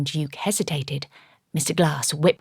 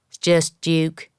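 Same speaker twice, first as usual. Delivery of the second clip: grunted; 3 dB louder, slower than usual. Acted. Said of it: "he grunted".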